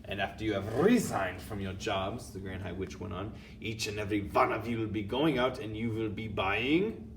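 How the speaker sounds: commanding witch with a put-on accent. Grand High Witch speaks.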